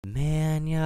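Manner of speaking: excited whisper yell; triumphant whisper. Real, not acted. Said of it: "I'm gonna whisper yell this".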